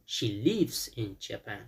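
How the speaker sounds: slow, careful model sentence; slow model answer. Shown as a demonstration. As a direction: say the answer slowly for students to copy.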